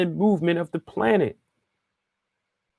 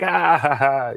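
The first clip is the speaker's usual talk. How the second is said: put-on, easy ha-ha laugh; mock laugh; slower than usual. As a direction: fake being amused by a friend's tease. Acts out listener laughing it off.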